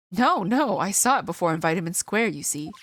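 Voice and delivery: lightly hammed-up fake French accent; terrible French accent. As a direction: play the nervous Frenchman with a bad accent. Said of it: "I love doing terrible French accents".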